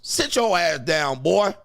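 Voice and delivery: slow mock command, rising on "boy"; blunt order. Imitating fifties men telling it straight, blunt mock order. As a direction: order a kid about like an old-school dad. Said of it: "They just told it what it was".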